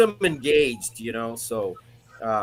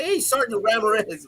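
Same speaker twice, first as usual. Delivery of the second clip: lightly voiced schoolkid, pitched higher; kids calling out; 7 semitones higher than usual. Kids in the Valley greeting their teacher, lightly imitated higher call. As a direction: imitate pupils hailing their sergeant in a higher voice. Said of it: "little Mexican kids with ac".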